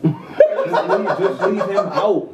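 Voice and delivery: laughing plea. Real, not acted. Laughing during banter.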